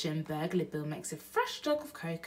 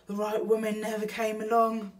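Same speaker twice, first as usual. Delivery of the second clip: Burglar Bill; 4 semitones higher, 6 dB louder than usual. Acted. Bill's voice in the story.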